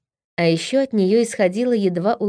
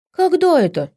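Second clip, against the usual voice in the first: high, loud indignant squeak; outraged little gnome; 9 semitones higher, 4 dB louder than usual. Acted. (возмущённо, высоким голосом)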